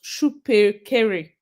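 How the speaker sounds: "Shupe Kere" said slowly, as shoo-peh keh-reh; careful pronunciation. Shown as a demonstration. Streamer reading out a viewer's name, "Shupe Kere" pronounced carefully as shoo-peh keh-reh. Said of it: "it's pronounced".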